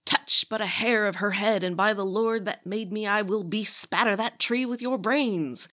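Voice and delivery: a hint of a blustering frontier hero; melodramatic hero's threat. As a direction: ham up the hero's threat like a dime novel. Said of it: "Here is a quote".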